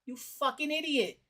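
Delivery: stammering, panicked imitation; halting uh uh then blurting; mock stammer. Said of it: "didn't catch that stutter".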